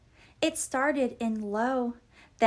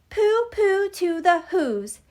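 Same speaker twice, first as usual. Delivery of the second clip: higher, louder gloating Grinch sneer; grinchy gloating; 6 semitones higher, 6 dB louder than usual. A narrator's reading. The Grinch on Mount Crumpet gloating over the Whos, loud smug sneer. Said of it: "he was grinchishly humming".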